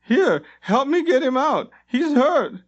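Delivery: urgent orders to help the hurt god. A narrator's reading. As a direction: bark the order to the crowd. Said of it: "Limbeck ordered".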